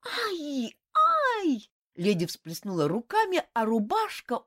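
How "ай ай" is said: high cries of alarm; alarmed cry. A narrator's reading. Lady cries out as the shirt crumbles, alarmed. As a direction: cry out in dismay. Alicia sees shirt burn.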